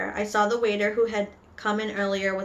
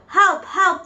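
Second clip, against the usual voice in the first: high, loud cries for help; screaming; 9 semitones higher, 6 dB louder than usual. Acted. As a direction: cry out in acted panic. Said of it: "the man was screaming".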